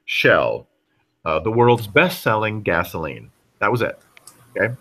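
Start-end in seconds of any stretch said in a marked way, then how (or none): 0.0-3.3 deep, measured commercial read on "Shell"; ad tagline read. Shown as a demonstration. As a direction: announce it like a gas station ad. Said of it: "The tagline for the, for Shell Oil's campaign was".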